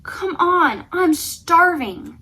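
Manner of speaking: hammed-up hungry dragon; dragon whining. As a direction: moan about hunger.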